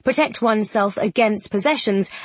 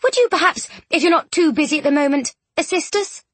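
high, polite and tentative; timidly courteous, pitched well up; a bit timid; 7 semitones higher than usual. A narrator's reading. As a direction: ask a favour very shyly. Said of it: "she said a bit timidly".

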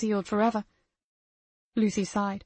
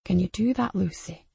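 menacing voice. Acted. Abuser menacing child Lucy.

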